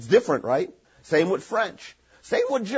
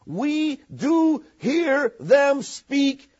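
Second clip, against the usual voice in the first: scripture reading. Acted. Reads scripture aloud.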